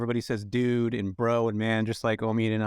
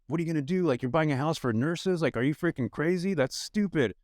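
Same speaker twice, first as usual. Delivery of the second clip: higher-pitched, disbelieving family member; mock disapproval, pitched up; mock incredulous scolding; 5 semitones higher than usual. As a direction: imitate a relative questioning your sanity.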